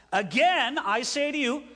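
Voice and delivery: AGAIN हल्का सा ज़ोर देकर, "Again I say to you" ज़ोर से पढ़ो; greater emphasis. Shown as a demonstration. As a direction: stress on Again, read with added weight. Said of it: "Jesus gave a little more emphasis".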